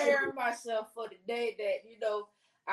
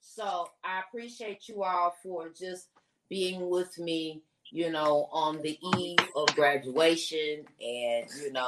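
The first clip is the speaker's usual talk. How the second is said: holding back tears; 4 semitones lower than usual. Real, not acted. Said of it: "I'm trying not to cry".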